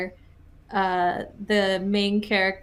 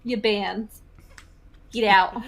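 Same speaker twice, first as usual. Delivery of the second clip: put-on New Jersey accent; slower than usual. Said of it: "my fake New Jersey accent".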